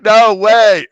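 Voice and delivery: high, loud imitated disbelief; playful hammed-up no way; 1 mock disbelief. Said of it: "You're like".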